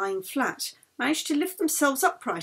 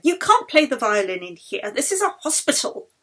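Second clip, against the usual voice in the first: louder, firm scolding; stern refusal; 3 semitones higher, 6 dB louder than usual. Acted. Matron forbidding music on the ward, louder and stern. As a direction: lay down the rule.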